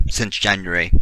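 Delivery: clipped British "January" in two or three syllables; fake British accent. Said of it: "Had to do my fake British accent".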